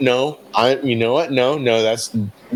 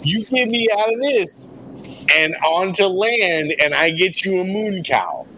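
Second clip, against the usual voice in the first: higher, put-on bargaining voice; 4 semitones higher than usual. Adventurer bargaining with the rat boss in a higher put-on voice. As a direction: wheedle like a slick dealer. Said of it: "I don't know why I'm doing that voice again".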